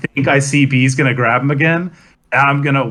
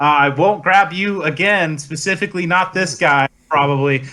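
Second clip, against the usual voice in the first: mock apology; 3 semitones higher than usual. Promising not to grab again.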